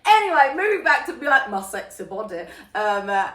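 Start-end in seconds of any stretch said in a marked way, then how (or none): 1.5-2.4 softly put-on Scottish accent. Quoting a running joke in a Scottish accent. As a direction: slip back into mock Scottish. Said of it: "I keep doing this Scottish accent".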